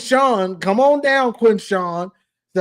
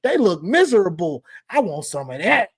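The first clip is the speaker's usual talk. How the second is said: mock eager Caleb; 4 semitones lower than usual. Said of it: "and he said".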